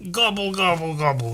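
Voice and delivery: silly gobble noises; mock gobbling. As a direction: gobble it out like a turkey. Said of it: "That's the sound of me".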